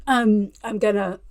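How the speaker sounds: croaky throat, needing to clear it; words caught in a frog in the throat. Real, not acted. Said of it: "got a frog in my throat".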